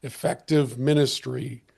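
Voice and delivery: hoarse, voice giving out; strained, fading hoarse voice; losing voice. Real, not acted. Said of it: "I think I'm losing my voice".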